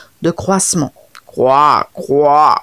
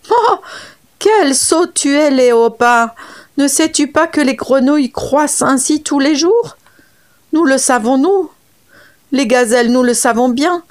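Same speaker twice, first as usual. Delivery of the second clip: higher, lightly voiced gazelle teasing; mocking gazelle; 6 semitones higher than usual. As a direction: laugh at the foolish leopard. Gazelle mocks the leopard. (voix de gazelle moqueuse, plus aiguë)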